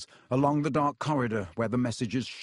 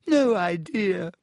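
hushed; 6 semitones higher, 4 dB louder, slower than usual. A narrator's reading. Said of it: "said Myrtle in hushed tones".

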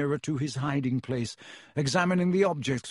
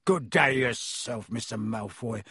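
bitter, no longer oily; 3 semitones lower than usual. Acted. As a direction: mutter it with dropped courtesy. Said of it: "dropped his oily manner".

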